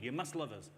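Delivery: insistent line leaning on "must"; stress on must. Retold or imitated. Sector boasting of jobs to the public, stress on "must". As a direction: press the word "must". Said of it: "emphasis on must".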